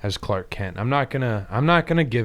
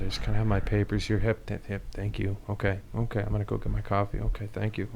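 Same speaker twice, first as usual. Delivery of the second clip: soft, timid office worker; meek mumble at the desk; quiet and shy; 3 semitones lower, 7 dB quieter than usual. Acted. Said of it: "a little more quiet and shy".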